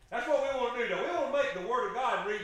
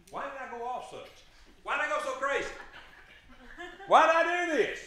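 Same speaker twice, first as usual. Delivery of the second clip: building frantic self-questioning; 6 semitones higher, 4 dB louder than usual. Retold or imitated. Preacher voicing a frenzied sinner, building to a shout. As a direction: build each why louder until it bursts.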